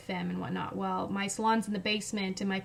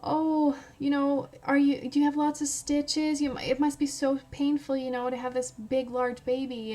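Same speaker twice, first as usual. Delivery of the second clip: higher-pitched mock concern; imitating sympathetic visitors; 4 semitones higher than usual. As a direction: fuss over someone with put-on pity. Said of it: "so sympathetic to me and they're saying".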